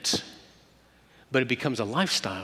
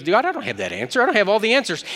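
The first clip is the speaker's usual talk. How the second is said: pleading; 7 semitones higher, 3 dB louder, faster than usual. Acted. Moses pleading excuses to God.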